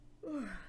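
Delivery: a soft, sleepy breathy sigh. Acted. Teacher to the kids, acting drowsy: a sleepy sigh. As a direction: sigh as if nodding off. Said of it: "I must be a little sleepy".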